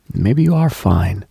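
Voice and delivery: ordinary talk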